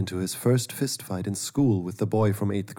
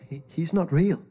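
put-on scared boy; 8 semitones higher than usual. A narrator's reading. Boy insisting.

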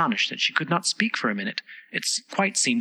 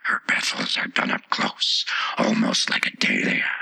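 interrupting Tiger Lily. A narrator's reading. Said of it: "the Tiger Lily interrupted".

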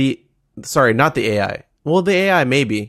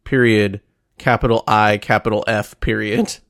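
dictating; 2 semitones lower than usual. Retold or imitated. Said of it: "I wrote a note right here".

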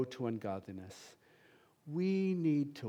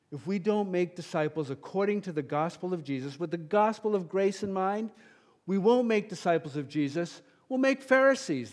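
same warning again, louder and higher, peaking on Pharisees; impassioned repeat; 5 semitones higher, 6 dB louder than usual. Real, not acted. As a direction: escalate the warning. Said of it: "get passionate on that one".

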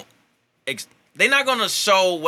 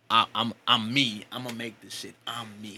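quiet, tipsy mumble; 4 semitones lower, 6 dB quieter than usual. Real, not acted. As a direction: drift off like you've had a few. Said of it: "getting drunker".

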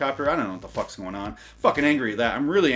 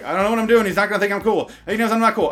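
much higher, much louder nervous panic; panicked inner voice; 10 semitones higher, 9 dB louder, faster than usual. Retold or imitated. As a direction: blurt your inner panic out loud. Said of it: "'Cause I'm like".

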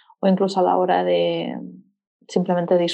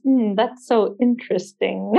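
sarcastic "interesting"; slower than usual. Retold or imitated. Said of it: "esta palabra me la sé en inglés".

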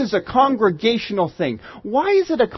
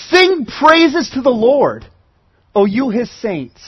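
slow proclaiming call; 2 semitones higher, slower than usual. Retold or imitated. David cries out to saints.

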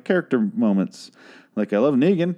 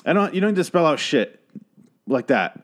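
ranting rage; 6 semitones higher than usual. Real, not acted. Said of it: "I'm losing my voice 'cause of my rage".

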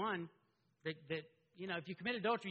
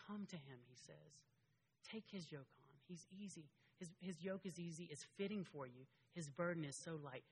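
gentle invitation; 7 dB quieter than usual. Pretend.

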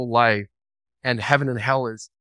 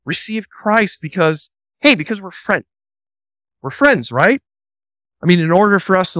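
pushy friend; 3 semitones higher than usual. Retold or imitated. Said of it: "Here's a few".

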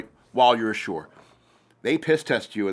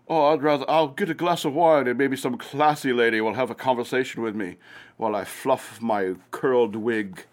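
a hint of a prissy officer, slowing at the end; lightly mock the genteel officer type; understated posh officer parody; snooty officer. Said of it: "You know how officers are".

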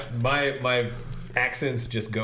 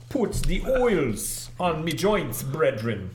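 mock Jamaican; 3 semitones higher, slower than usual. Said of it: "Jamaican people say brethren".

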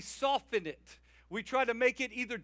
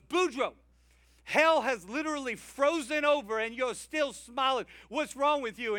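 exasperated devil; 4 semitones higher, 4 dB louder than usual. Retold or imitated. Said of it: "Satan comes up to him and he goes".

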